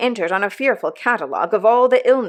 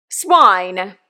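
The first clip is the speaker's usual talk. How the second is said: deepest voice; 6 dB louder than usual. A narrator's reading. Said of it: "in his deepest voice".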